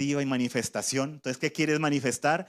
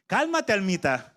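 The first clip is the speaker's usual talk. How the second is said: soothing the soul; 3 semitones higher than usual. Shown as a demonstration. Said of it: "digamos todos a la vez".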